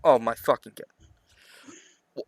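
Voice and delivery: very slow, soft disbelieving sigh; exasperated groan. Real, not acted. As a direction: drag it out in disbelief. Exasperated reaction.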